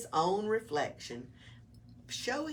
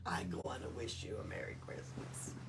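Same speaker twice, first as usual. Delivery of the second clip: whispered; 7 semitones lower, 8 dB quieter than usual. Shown as a demonstration. Reader repeats line whispered.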